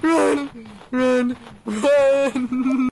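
urgent panicked yelling; shouting run. Real, not acted. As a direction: yell at them to run. Fleeing monster.

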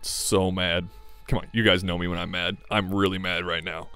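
deadpan, low claim of being mad; mock anger. Player telling Miss Mia how upset he is, mock anger. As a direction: claim fury in a subdued, unbothered voice. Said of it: "can you hear it in my voice".

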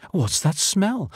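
lightly acted giant, wondering; puzzled giant's question. A narrator's reading. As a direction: ask it high, as a startled storybook giant. Giant startled by a strange smell.

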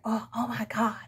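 breathy mock whisper of disgust; scornful whisper. Quoting the co-parent's scornful whisper. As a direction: hiss it like you're fed up. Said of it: "like the person said".

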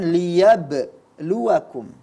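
LIYABLUWAKUM with an over-strong, broken-off bounce on the b; wrong qalqalah. Shown as a demonstration. Quran teacher showing the reader's mistake, over-bounced qalqalah. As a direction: say LIYABLUWAKUM slowly, bouncing hard after the b. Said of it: "Jadi jangan".

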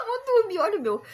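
sleepy, fading to a whisper; eyes closing, drifting off; nodding off. Real, not acted. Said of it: "meu olho tá fechando".

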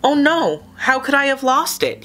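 put-on childlike fish dismayed at losing his sea glass; upset cry. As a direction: wail over the lost treasure. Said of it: "he cried".

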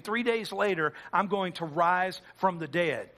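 a touch of gentle reassurance; tender retelling. Acted. Jesus confides in his disciples, lightly tender.

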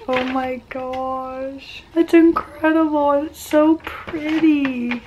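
high, drawn-out gushing; touched. Real, not acted. Vlogger opening a friend's gift, deeply touched. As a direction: coo slowly, close to happy tears. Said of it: "you gotta make me cry".

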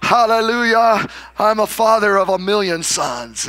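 loud, high hallelujah cry; joyful shout. Retold or imitated. Abraham pushing an empty stroller, joyful loud shout. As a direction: shout it out with faith.

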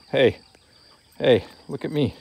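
high, bright call to get the dog's eye. Real, not acted. Trainer to dog Sarge, high calling voice. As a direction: chirp his name up high so he looks.

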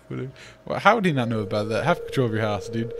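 usual speaking voice

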